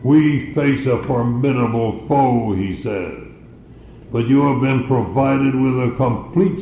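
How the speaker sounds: a hint of a battle speech; rallying commander. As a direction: stir the troops before battle, lightly. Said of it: "like the words of a commander challenging his army".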